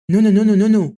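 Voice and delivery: a hint of a cute girl's playful no. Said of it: "بنات الكيوت". (تقليد خفيف لبنت كيوت بتقول لأ)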